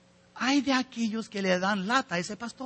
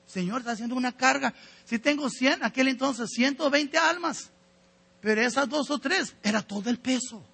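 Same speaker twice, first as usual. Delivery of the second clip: a mild, weary complaint raised higher; complaining prayer; 5 semitones higher than usual. Retold or imitated. Pastor complaining to the Lord about members, mock weary complaint. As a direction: voice a tired pastor grumbling to the Lord, lightly. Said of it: "Y el pastor tiene que orar, quejándose".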